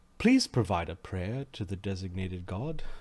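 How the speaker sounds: calm, soothing female voice. Narrating the voice heard after crawling through the circle, in a calm feminine voice. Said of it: "you hear this this calm feminine voice say".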